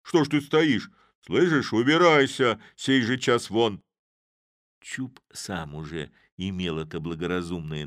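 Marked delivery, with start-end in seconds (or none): 0.0-3.8 loud, furious order to leave; a blacksmith yelling at a stranger; angry shout. A narrator's reading. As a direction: bark him away from the door, louder. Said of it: "сердито закричал Вакула".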